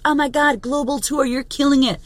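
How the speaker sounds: mock impressed followers; gushing fans. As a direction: mimic people fawning over the tour. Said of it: "And everybody's like".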